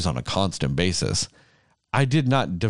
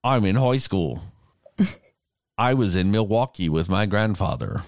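put-on Australian accent. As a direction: fake Australian that starts slipping by the end. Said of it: "But I sounded just like him".

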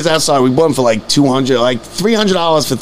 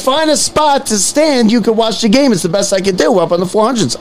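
laughing quote; 4 semitones higher than usual. Retold or imitated. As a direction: giggle while quoting her. Retelling usher while laughing.

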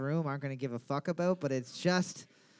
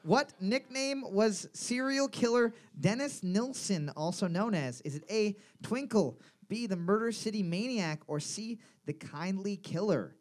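slow, deliberate question read; measured pub-quiz host delivery; 3 semitones higher than usual. Real, not acted. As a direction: read out the trivia question slowly to a room.

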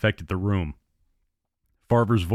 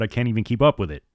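half shouted; faster than usual. Acted. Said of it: "he half shouted".

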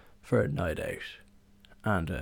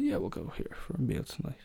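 breezy agreeing; 6 semitones higher, 6 dB quieter than usual. Retold or imitated. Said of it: "And like".

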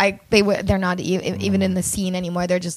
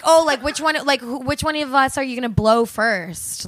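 imitating crude comic; 3 semitones higher than usual. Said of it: "no one would ever say".

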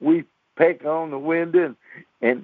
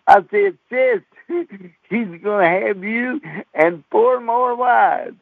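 laughing; 5 semitones higher than usual. Retold or imitated. Brother warning his sister about four more wives, laughing. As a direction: burst out laughing as you warn her.

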